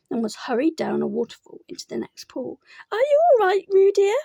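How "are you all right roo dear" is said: higher, louder worried mother's call; anxious call. A narrator's reading. Kanga calls to Roo in the water, anxious. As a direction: call out to your child in worry. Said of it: "called Kanga anxiously".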